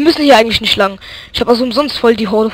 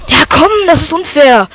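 annoyed protest; 5 semitones higher, 4 dB louder than usual. Real, not acted. Complaining after dying.

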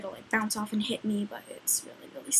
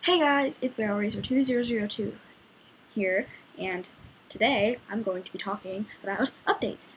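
YouTube intro voice. Acted. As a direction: welcome viewers like a YouTuber. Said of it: "this is what I do every single video".

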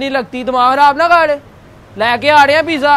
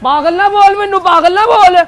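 raised-pitch, insistent objection; indignant warning; 3 semitones higher than usual. Real, not acted. Waiter objects to being called crazy, indignant warning. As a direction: warn him off, offended.

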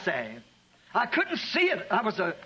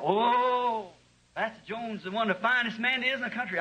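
put-on higher, eager old man's voice; old Gabe praising; 4 semitones higher than usual. Gabe praising Pastor Jones to the preacher, higher eager voice. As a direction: gush about your pastor.

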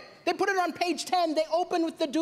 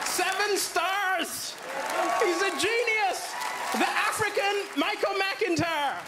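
hammed-up rave; 3 semitones higher, much slower than usual. Reading out rave review.

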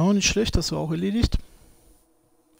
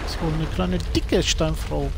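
slow, mock-admiring drawl on dicke; ironic. Shown as a demonstration. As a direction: stretch out dicke Steinfrau, ironic. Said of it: "Ironisch gemeint".

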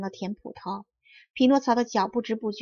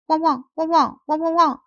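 high, loud woof-woofs; imitated dog barking; 7 semitones higher, 6 dB louder than usual. Puppet shows the farmer his barking, high mock dog. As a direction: imitate a dog, pitched well up. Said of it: "匹诺曹仰脖叫了起来".

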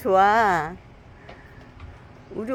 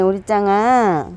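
slow, fond calling of the dog's name; tender; 2 semitones lower, much slower than usual. Real, not acted. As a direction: say it slowly and lovingly. Fond address to the dog.

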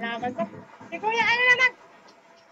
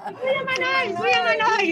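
calling out; 3 semitones higher, 5 dB louder than usual. Real, not acted. Reporter calling out to passerby.

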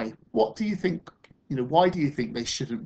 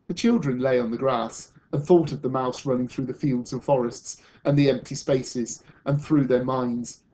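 measured, expressive picture-book reading; storyteller reading to children; story narration; 3 dB louder than usual. Acted. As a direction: read a story aloud to a class, with lift on the key words.

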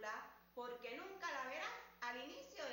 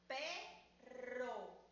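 slowly. Shown as a demonstration. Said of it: "la voy a decir más despacio".

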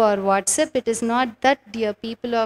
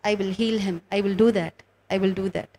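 voice of God; 4 semitones lower, 5 dB quieter, faster than usual. Retold or imitated. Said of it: "And God said".

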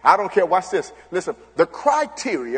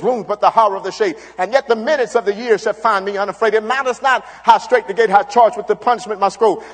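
poem recitation; 2 semitones higher than usual. Acted.

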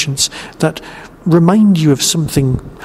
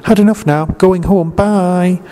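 a lightly voiced Tegan, a bit higher; mock Tegan; 4 semitones higher than usual. Reviewer mocks Tegan quitting the show, lightly voiced higher. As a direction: toss it off like a quitting companion, just a hint of her. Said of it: "Tegan just going".

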